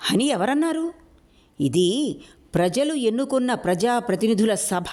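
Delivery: pitched high, heated retort; flaring up, voice jumping high; worked up. Acted. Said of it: "రెచ్చిపోతూ అన్నాడు". (రెచ్చిపోతూ, ఎక్కువ స్థాయిలో)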